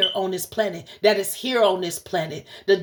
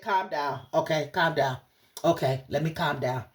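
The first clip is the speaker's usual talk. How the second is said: soothing spirit voice; 6 semitones lower, 5 dB quieter than usual. Retold or imitated. Relaying what Spirit told her, in a hushed low calm voice. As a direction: lower and softer, hushed calming. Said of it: "Spirit said".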